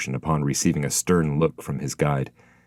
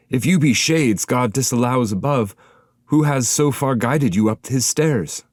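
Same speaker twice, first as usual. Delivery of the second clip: higher, puzzled questioning from a shade; voiced spirit; 8 semitones higher, 4 dB louder than usual. A narrator's reading. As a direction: ask who led them up here.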